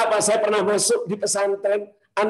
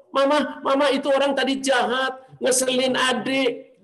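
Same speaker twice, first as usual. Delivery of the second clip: a hint of a complaining little one; child complaining; 3 semitones higher than usual. Child tattling to mama about someone mean, mildly plaintive complaint. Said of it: "ketika anakmu mengeluh".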